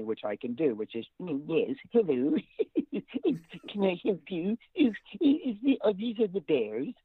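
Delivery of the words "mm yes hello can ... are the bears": higher, slow and laughing ranger; a chirpy park ranger greeting visitors; Disney park ranger. Retold or imitated. Voice actor imitates the Disney park ranger, higher and chirpy. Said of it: "I remember the park ranger from Disney".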